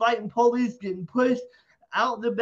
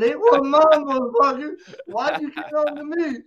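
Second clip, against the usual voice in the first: retold yell back; 6 semitones higher, 3 dB louder than usual. Yelling back at angry guy.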